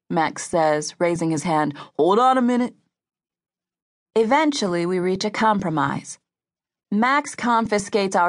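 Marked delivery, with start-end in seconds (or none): 2.0-2.7 raised, higher urgent stop; urgent call. A narrator's reading. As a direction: call them back firmly. Max stops them leaving.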